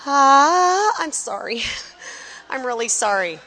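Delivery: apologetic lady student. Retold or imitated. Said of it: "with a lady".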